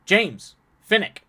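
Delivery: booming, proud announcement; loud introduction. Acted. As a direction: call out the names. Character introduces names loudly.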